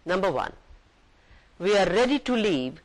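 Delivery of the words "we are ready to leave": light, bright-ish call with a lift on ready; cheerful. Acted. Voice on the bus mic announcing, mildly cheerful. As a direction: sound pleased, announcing departure. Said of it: "said a cheerful voice".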